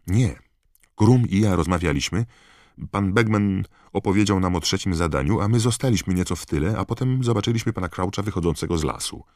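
high, loud, agitated account; urgent Harry. A narrator's reading. Harry urgently explains to Dumbledore. (przejęte, głośne wyjaśnienie)

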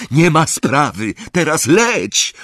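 high, urgent shout; shouting back. A narrator's reading. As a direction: yell back over the engine, stretching the order. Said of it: "odkrzyknął Harry".

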